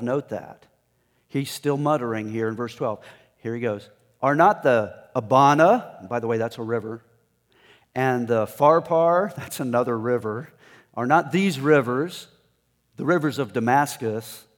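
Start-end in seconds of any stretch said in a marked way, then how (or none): 4.2-6.1 scornful boast. Acted. Acting out Naaman's scornful boast. 7.9-9.3 scornful boast. Acted. Acting out Naaman's scornful boast. 10.9-14.4 scornful boast. Acted. Acting out Naaman's scornful boast.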